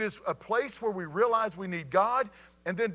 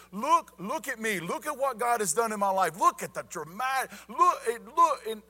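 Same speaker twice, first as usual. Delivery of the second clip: excited, higher-pitched show-off; prideful boasting; 4 semitones higher, 3 dB louder than usual. Acted. Preacher imagines Paul boasting of what God did, prideful. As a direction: act out a puffed-up braggart. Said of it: "a very prideful individual".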